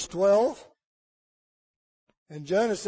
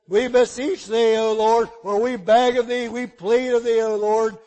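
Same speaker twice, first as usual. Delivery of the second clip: pleading prayer; 6 dB louder than usual. Acted. Sailors' prayer voiced.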